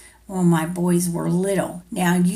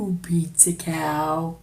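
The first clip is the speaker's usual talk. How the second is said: lower, softer cow moo; 4 semitones lower, 4 dB quieter than usual. Acted. To the child, answering the pizza cow, lowing.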